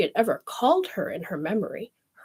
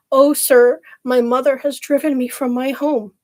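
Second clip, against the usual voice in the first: tearful plea; 5 semitones higher, 7 dB louder than usual. Acted. Crying girl pleads to prince.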